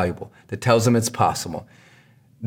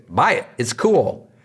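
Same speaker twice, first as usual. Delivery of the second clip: mock glib pitch; slower than usual. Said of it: "and say".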